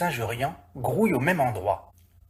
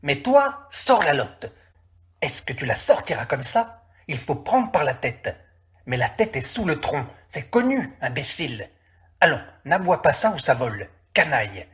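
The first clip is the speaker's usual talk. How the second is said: louder rough insults; a bickering, louder workmen's row; squabbling men; 3 dB louder than usual. Acted. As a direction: quarrel while wrestling the fish. Men quarrelling over the fish.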